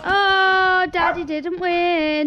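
loud, slow gloating; gleeful teasing. Real, not acted. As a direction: gloat at dad's loss. Teasing dad lost.

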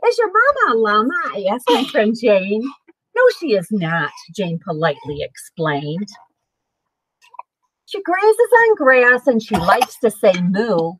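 lively storybook read-aloud; reading to children. Acted. Parent reading a picture book to the kids, lively. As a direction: read it bright and sing-song for little ones.

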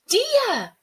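high, full-voiced shout; Sabrina. Girl calling the spirit from the pier, loud high shout. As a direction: call out hard across the waves. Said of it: "Sabrina shouted".

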